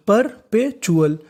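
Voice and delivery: परपेचुअल drawn out slowly, each syllable par-pe-chu-al spaced. Shown as a demonstration. Teacher spelling out परपेचुअल slowly for students. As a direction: stretch परपेचुअल out slowly for the class. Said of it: "तो meaning बनी".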